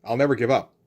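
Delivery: mock-casual, calm declaration; understated, conversational hero line. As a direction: tell them evenly, no exclamation. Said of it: "where he just calmly tells them".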